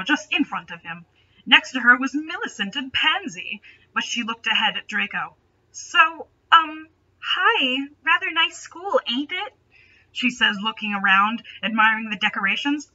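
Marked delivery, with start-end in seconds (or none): 5.7-9.5 lightly voiced shy girl, pitched higher; girly new student voice. Rachel chats up Draco at the table, higher girly voice. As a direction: chirp it up like a nervous newcomer.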